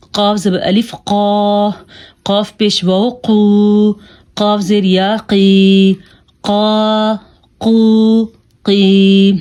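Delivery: قاف full-mouthed and heavy, long vowels held; heavy letter. Shown as a demonstration. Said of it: "موٹا کر کے پڑھنا". (موٹا قاف، کھینچ کر)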